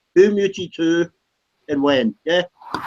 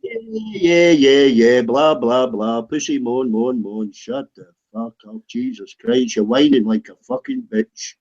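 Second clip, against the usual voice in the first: droning blah-blah, sinking lower; mocking dismissal; 4 semitones lower than usual. Real, not acted. Mocking a chat rival for moaning, dismissive. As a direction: brush off the complaint with falling, scornful repetition.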